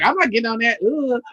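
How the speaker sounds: loud, high, outraged sister voice; mock sisters at the dock. Sisters at the dock refusing the white-girl party, loud outraged voice. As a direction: ham up a disgusted woman refusing the boat. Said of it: "saw the white girls like".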